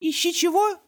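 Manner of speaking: put-on high child voice, puzzled; confused toddler. Toddler mishears the French phrase, high and puzzled. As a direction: ask it like a baffled little boy.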